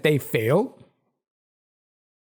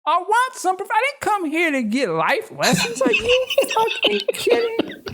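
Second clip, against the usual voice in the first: mock strip club customer; 14 semitones higher than usual. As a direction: play a fed-up club customer telling the stripper off.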